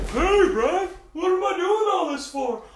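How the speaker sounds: loud, high, pumped-up self pep talk; hyped shout to get himself back on track. Pretend. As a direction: yell at yourself like your own coach. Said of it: "I just have to turn my chair like this and be like".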